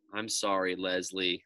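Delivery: sheepish. Acted. Forced apology to classmate.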